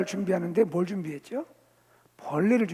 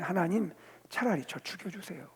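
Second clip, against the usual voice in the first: resigned plea for death; 8 dB quieter than usual. Acted. Preacher rewording the prophet's plea to God, quietly. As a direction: plead quietly, with little force. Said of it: "다시 말하면".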